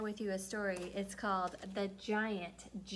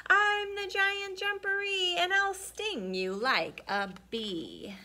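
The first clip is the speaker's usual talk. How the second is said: loom over the cat with each word; loud monster voice; 10 semitones higher, 4 dB louder than usual. Acted. Hidden giant booming threats at the cat. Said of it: "he heard a loud voice".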